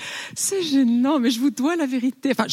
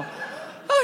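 high breathless oh; 4 dB quieter than usual. Acted. Feigned excitement.

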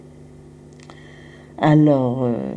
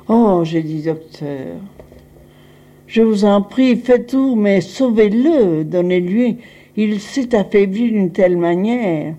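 retold desperate plea; 3 semitones higher than usual. Begging the doctor to save him.

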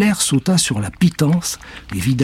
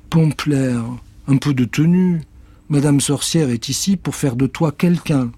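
petite fille, voix haute et ferme; Joséphine qui gronde; 4 semitones higher than usual. Acted. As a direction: gronde le chat gentiment. Joséphine scolds. (Joséphine reprend le chat, ferme)

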